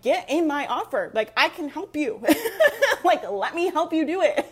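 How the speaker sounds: giggling through an eager pitch; laughing sales pitch. Retold or imitated. Coach to her followers, laughing through the pitch. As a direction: pitch the offer while laughing at yourself. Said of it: "I'm like".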